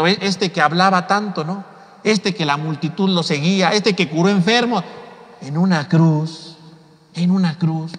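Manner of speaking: mocking onlooker. Mocker sneering at Jesus on the cross, scornful. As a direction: sneer at the fallen preacher. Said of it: "como diciendo".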